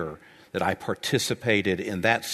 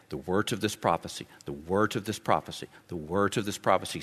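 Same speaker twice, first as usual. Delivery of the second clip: softer each time, pressing "words"; quiet emphatic repetition; 2 semitones lower, 7 dB quieter than usual. Shown as a demonstration. Preacher hammering home the book's theme, softly. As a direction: let the phrase sink in softly. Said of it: "an emphasis".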